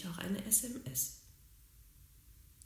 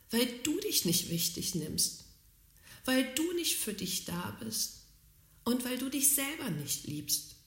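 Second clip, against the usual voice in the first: higher, earnest inner voice answering her; voice from above; 6 semitones higher than usual. Retold or imitated. Inner voice from above answering her despair, higher and earnest. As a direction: speak like a gentle voice from above. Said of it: "wie so eine Stimme von oben".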